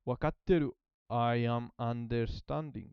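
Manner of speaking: normal talking voice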